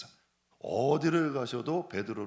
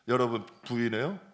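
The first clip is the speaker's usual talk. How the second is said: ordinary delivery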